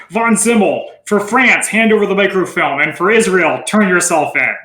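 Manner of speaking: attempted French accent. Shown as a demonstration. Host trying a cool movie line, mild French accent. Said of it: "I could try to do a French line".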